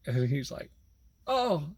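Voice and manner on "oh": high, fretful imitation of the passenger; panicked passenger. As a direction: squeak out his dismay in a higher voice. Passenger dismayed, voiced.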